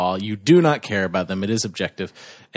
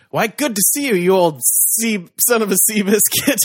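put-on old sea dog voice; 8 semitones higher than usual. Greeting in sailor voice.

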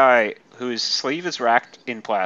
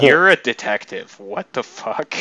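mock exasperation; 2 semitones higher, 5 dB louder than usual. Mock berating of the book's detective.

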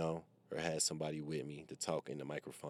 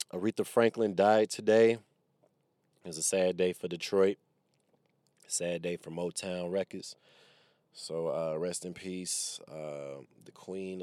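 announcing news; 3 semitones higher, 10 dB louder than usual. Acted. Mock-solemn death announcement.

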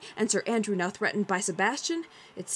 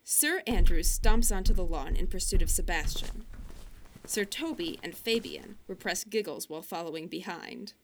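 sportscaster play-by-play. A narrator's reading. Narrator play-by-play.

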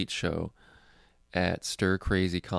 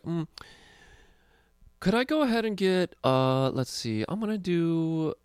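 lampoon the comic's fussy order; mock pretentious customer; 7 semitones higher than usual. Mocking the comic's bar order.

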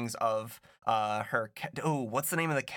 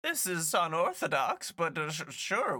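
put-on old lady voice; 5 semitones higher than usual. GM voicing rich old lady.

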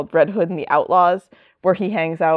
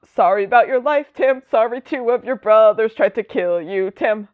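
mock condolence; 5 semitones higher than usual. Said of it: "voices mock sympathy to Tim".

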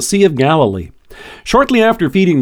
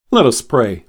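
closing prayer; 2 semitones lower than usual. Acted. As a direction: pray it gently, slowing at the end.

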